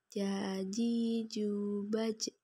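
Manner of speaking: "Ja, ji, ju" dengan tengah lidah ke langit-langit; huruf ja. Shown as a demonstration. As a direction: lafalkan "ba, je" dengan j mati memantul. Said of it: "dilafalkan dengan menyentuhkan tengah lidah". (tengah lidah menyentuh langit-langit pada "Ja, ji, ju")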